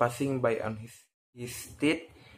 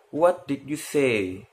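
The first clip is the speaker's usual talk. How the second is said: a king frowning at his daughter's answer; 3 semitones higher than usual. Acted. King frowning at his youngest daughter, mild displeasure. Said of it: "frowned the king".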